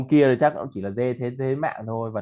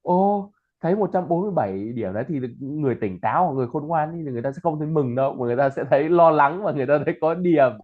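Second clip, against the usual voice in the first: animated, slightly higher retold comment; a lively retold reply; retelling own comment; 3 semitones higher than usual. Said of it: "mình bảo".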